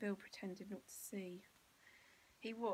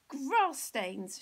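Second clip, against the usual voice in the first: higher, loud shriek of dismay; 6 semitones higher, 12 dB louder than usual. Acted. Mother shrieks at the grass stains, loud. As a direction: wail it in horror. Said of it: "she shrieked".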